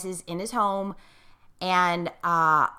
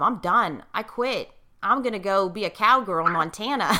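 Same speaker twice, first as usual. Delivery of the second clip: laughing. Real, not acted. Joking she quits.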